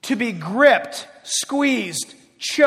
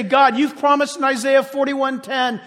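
prayer; 3 semitones higher, 4 dB louder than usual. Shown as a demonstration. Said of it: "Take that fear and say".

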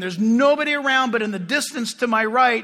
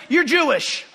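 laughing accusation; 3 semitones higher than usual. Retold or imitated. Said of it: "He goes".

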